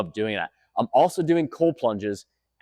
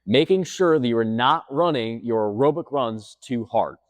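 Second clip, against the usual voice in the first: slow restated tip; slower than usual. Shown as a demonstration. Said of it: "Let me say that again".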